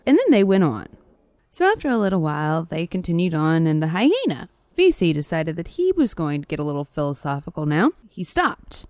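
lively folktale telling with big pitch swings; animated storyteller; story narration. A narrator's reading. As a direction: tell it like a fable, stressing the key words. Reads a folktale aloud.

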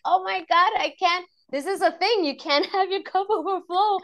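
high, loud, delighted gasp of realization; excited discovery. Retold or imitated. Retelling her discovery to the host, high and excited. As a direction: burst out in amazed joy.

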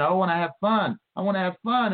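high-pitched mimicry of pleasure-seekers demanding; imitated childish pleading; mock crybaby. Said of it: "you cry like a baby".

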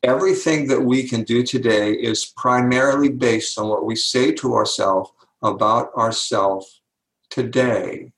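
pause, then "today" set apart on its own; stress on today. Shown as a demonstration. Interviewee driving a point home to the host, stress on today. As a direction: hold back before "today", then land it deliberately. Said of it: "I'm emphasizing the word today".

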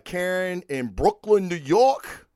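put-on a light, half-hearted Brooklyn, New York accent. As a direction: toss off a quick, admittedly bad Brooklyn accent. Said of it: "That was my Brooklyn, New York accent".

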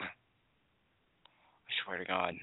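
slow, breathy whisper through the anger; a furious man whispering to himself; seething whisper. Real, not acted. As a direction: hiss it under your breath, barely holding it in. Seething, under his breath.

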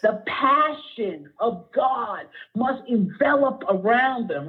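slow, heartfelt preaching near tears; getting emotional. Real, not acted. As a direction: draw each phrase out, choked with feeling. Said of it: "I'm getting emotional".

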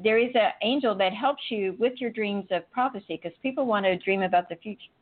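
speaking with the hiccups. Real, not acted. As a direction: talk through hiccups. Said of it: "got the hiccups".

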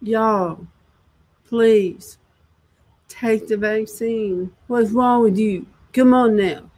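lightly voiced preachy plea, mock insincere; a hint of the president's coaxing, hammed-up; mocking president impression. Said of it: "I'm gonna put it on the video camera".

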